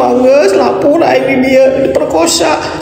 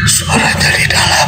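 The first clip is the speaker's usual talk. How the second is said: whispered repeat; 4 dB quieter than usual. Real, not acted. Repeats line, then whispers it.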